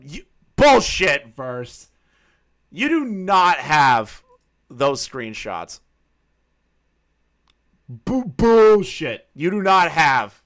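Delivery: slow, loud, hammed-up disbelief; mock outraged accusation. Streamer slowly, loudly accuses a chatter of lying about screenshots. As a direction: stretch out the accusation like a scandalized judge.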